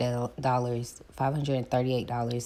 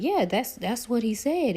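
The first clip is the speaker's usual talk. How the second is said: much higher, exasperated; high mock self; 12 semitones higher, 4 dB louder than usual. Telling the lender what realtor said, high and exasperated. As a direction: squeak it out, exasperated. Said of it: "And I was like".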